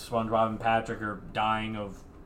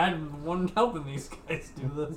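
cartoon voice; 5 semitones higher than usual. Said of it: "he's like".

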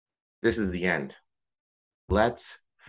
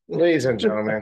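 louder, higher, laughing; mock speech opening; 6 semitones higher, 7 dB louder than usual. Best man pretending to start his speech, mock toast voice. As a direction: boom it like starting a wedding toast. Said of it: "No, I'm playing".

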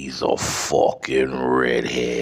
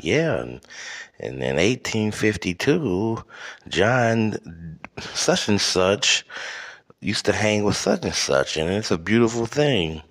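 lightly imitated chatty woman, higher; a hint of a sociable lady, pitched up; chiming into a conversation; 5 semitones higher than usual. Imitating a woman adding to the guys' conversation, lightly put-on chatty voice. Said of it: "she would say it in a voice that says".

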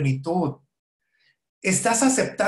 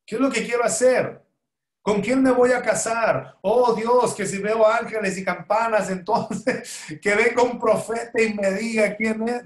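mocking a naive seeker, pitched up; 4 semitones higher than usual. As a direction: ham up the naive seeker asking God. Mocks a mystical seeker.

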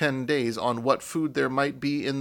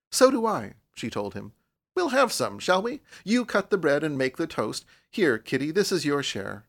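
put-on cheerful girl; 2 semitones higher than usual. Girl cheerfully takes charge.

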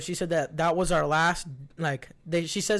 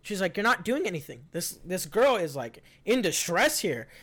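professional woman; 4 semitones higher than usual. Retold or imitated. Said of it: "She looked real professional".

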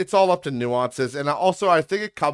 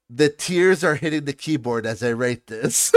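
laughing while reading. Retold or imitated. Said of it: "it opened up with".

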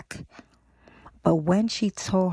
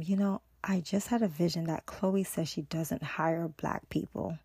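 hushed confiding; 6 dB quieter than usual. Retold or imitated. Raven confides her vision.

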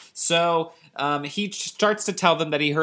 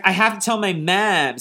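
lightly acted urgent boy, higher pitch; urgent kid; 6 semitones higher, 4 dB louder than usual. Joe resolves to tell his mom, urgent kid voice. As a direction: raise the pitch like a kid who must tell.

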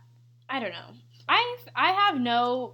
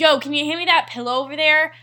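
rough attempt at New York accent, louder; 6 dB louder than usual. Player asking for the pillow in game, bad New York accent. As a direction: punch it out like a would-be New Yorker. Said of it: "it was New York".

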